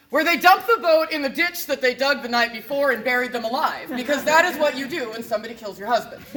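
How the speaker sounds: loud, punchy storytelling; emphatic. Acted. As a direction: hit the reveal hard. Punchline told with gusto.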